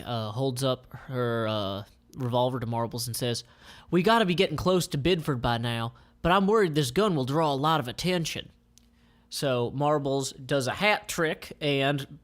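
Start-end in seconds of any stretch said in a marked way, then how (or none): 3.9-8.5 put-on girl voice. Jackie speaks, voiced by reader.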